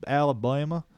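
a touch of mock Alabama twang; Alabama accent. Asking co-host about movie accents, mock Alabama accent. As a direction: put on a light Alabama accent. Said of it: "Do they have weird accents".

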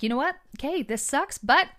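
bright, upbeat pep talk; upbeat and positive. Retold or imitated. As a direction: cheer everyone up, lively and eager. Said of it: "the person who's like".

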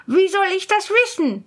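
high, unafraid retort; fearless. Acted. Student facing the giant spirit, fearless. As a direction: toss the question back without fear. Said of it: "antwortete der Schüler ohne Furcht".

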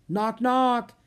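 high, loud playful call; loud knock knock. Acted. Annie barging into Leonardo's room, calling out loudly. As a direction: announce yourself boldly. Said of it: "she said loudly".

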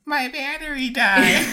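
high, slow laughing line. Retold or imitated. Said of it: "all I could think was".

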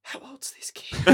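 whispered, breaking into laughter; laughing quote. Retold or imitated. Mimicking the puzzled security guard, laughing breathily. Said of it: "he's like".

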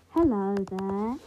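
a light put-on British accent greeting; a slow posh British hello, half joking; mock British accent. Gamer tries a British accent on his viewers. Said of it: "with the British accent".

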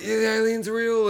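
lightly hammed-up high cheer; a touch of put-on glee; mock excitement. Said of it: "They're all excited".

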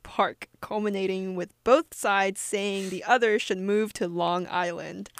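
put-on news anchor read; measured, formal reporting delivery; professional news anchor. Co-host reading a local park fight story, mock news anchor voice. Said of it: "that was my professional news anchor voice".

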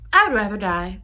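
laughing through the line. Retold or imitated. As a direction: crack up while saying it. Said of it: "And she's like".

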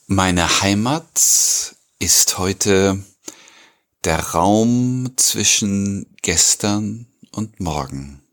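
very slow, spaced-out poem reading; poem recitation. Acted. Host opens the episode with a poem, slow recitation. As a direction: recite it slowly, letting the last word drop. Reads poem aloud at opening.

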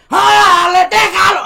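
shrill, very loud yell of the Argentine boss; furious Argentine scream. Retold or imitated. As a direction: scream it out like you've lost it. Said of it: "Así fuerte".

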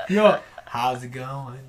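low, slow attempt at Wisconsin accent; subdued, drawn-out Wisconsin greeting; second Wisconsin accent attempt. Retrying Wisconsin for friends, low slow accent.

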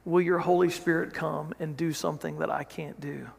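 softly voiced plea, lightly acted; hushed, understated appeal to God; retold humble prayer. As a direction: pray it quietly, with pauses between phrases. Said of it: "he bows his head and he just says".

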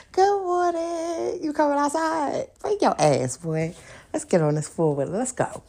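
hollering across the yard to hurry him along; calling out cheerfully. Pretend. Waving at the guy next door, calling him out loudly.

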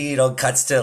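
ordinary talk

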